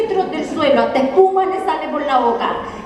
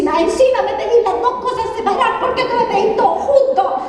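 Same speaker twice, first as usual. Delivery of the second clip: higher, laughing mock scold; mock scolding mom; 6 semitones higher than usual. Mom scolds daughter from the kitchen, higher mock scolding. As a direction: nag like an exasperated mom, half laughing. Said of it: "cómo me grita y me dice".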